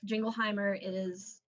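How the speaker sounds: ordinary delivery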